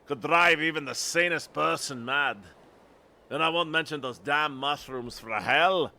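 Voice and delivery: animated Scottish storytelling, swelling at moments; Scottish accent. Acted. Lookout listing dangers to visitors, Scottish accent. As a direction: build the dangers in a put-on Scottish voice. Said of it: "I need to really get my axe".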